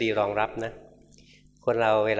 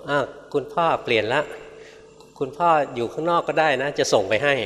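mildly flustered plea to the spirit, a bit louder; flustered children; 5 semitones higher, 4 dB louder than usual. Retold or imitated. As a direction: hastily tell father to stay outside. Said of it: "บอก".

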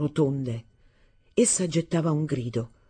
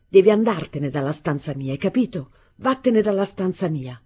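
angry order; 3 semitones higher, 5 dB louder than usual. Acted. Arturo drives out his stepmother.

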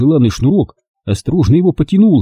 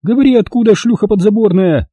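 shrieking; 7 semitones higher than usual. A narrator's reading. Olga shrieking at the maid, arm raised. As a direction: screech the insult. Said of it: "завизжала она".

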